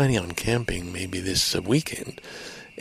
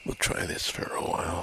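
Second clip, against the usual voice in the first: low voice; 4 semitones lower, 6 dB quieter than usual. Real, not acted. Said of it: "what level of voice to use".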